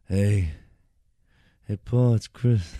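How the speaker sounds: loud, slow put-on Chris voice on the phone; Chris Italia impression. Friend imitating the manager calling on the phone, loud and slow. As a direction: drag out a big hammy phone greeting. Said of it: "I can hear Chris Italia now calling you".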